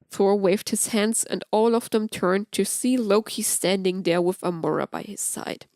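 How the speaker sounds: ordinary delivery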